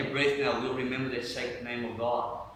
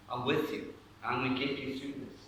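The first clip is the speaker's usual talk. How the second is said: soft, close reassurance; quietly steadying someone; gentle whispered encouragement; 5 dB quieter than usual. Acted. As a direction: murmur comfort into an ear. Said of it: "he's whispering into your ear".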